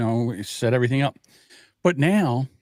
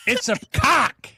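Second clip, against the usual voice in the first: laughing; 13 semitones higher, slower than usual. Real, not acted. Laughing shocked reveal.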